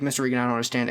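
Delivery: lightly voiced meathead strongman; a hint of Schwarzenegger without the accent; quick imitation of the jock's odd voice; Brandon. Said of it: "in that voice".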